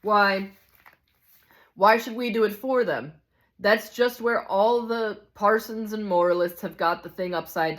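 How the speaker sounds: emphatic, argumentative grumbler; indignant hard-bitten ghost. Acted. Ghost blaming the management, indignant harangue. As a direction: build a case with lively indignation.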